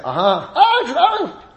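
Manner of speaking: laughing, rising "it's Aleph"; a lightly voiced excited child; child's delight. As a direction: imitate a child spotting a letter. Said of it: "you open up the book and you say".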